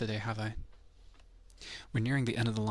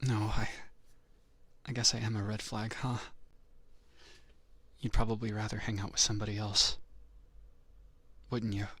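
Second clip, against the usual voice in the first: mildly wounded dub voice; understated mock hurt; acted dejection; 3 semitones lower than usual. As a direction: play sorry for yourself. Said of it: "I put on my voice actor dub voice".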